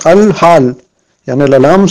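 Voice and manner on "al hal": al-hal with a clearly sounded first l; lam pronounced. Shown as a demonstration. Teacher showing the lam is said, audible l in "al-hal". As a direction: hold onto the l of the article in "al-hal". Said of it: "ça se prononce".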